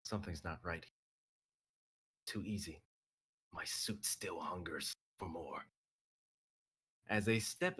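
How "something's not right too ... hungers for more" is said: whisper. Acted. Menacing character line.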